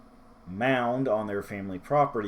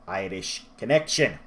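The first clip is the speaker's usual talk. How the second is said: playful, hammed Irish accent; amateur Irish lilt; bad Irish accent; 4 dB louder than usual. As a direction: slip briefly into a poor Irish accent. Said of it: "doing horrible Irish accents throughout this review".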